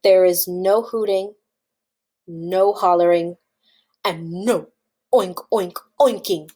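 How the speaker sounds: low, measured list of bans; firm rule-giving. Acted. Farmer forbidding pigs their noises, firm. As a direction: spell out each rule soberly.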